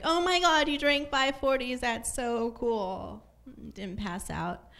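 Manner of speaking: put-on high, bubbly girly gush; gushing compliment. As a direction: gush like an impressed friend. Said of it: "compliments, like".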